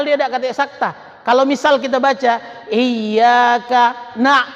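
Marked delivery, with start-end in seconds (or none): 2.7-4.5 slow chant cut off after "na-"; wrong pause demo. Shown as a demonstration. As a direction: stop wrongly in the middle of "na'budu". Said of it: "salah itu". (contoh salah, bacaan terputus di "na-")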